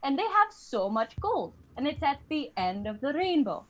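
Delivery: lilting Irish sales pitch; Irish accent. Acted. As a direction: spin a tall tale in an Irish accent. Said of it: "they were like".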